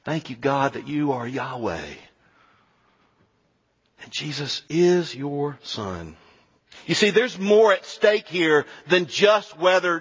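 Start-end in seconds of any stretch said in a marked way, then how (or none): 0.0-6.2 low, soft prayer. Real, not acted. Preacher thanking God after the sermon's argument, quiet prayer. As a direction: pray slowly and quietly, with long pauses.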